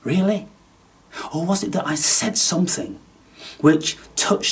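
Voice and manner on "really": much higher, louder mock disbelief; mock astonishment. Scoffing at commenters who called his voice demonic, in mock shock. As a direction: throw up your hands in fake shock.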